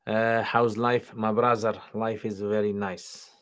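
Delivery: put-on slow, heavy Russian accent. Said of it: "my Russian accent".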